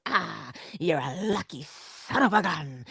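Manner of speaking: lightly voiced easygoing father; a hint of Dad's laid-back Bajan greeting; imitating father. Father greeting grandson Noah, lightly imitated laid-back. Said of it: "I imitate my father".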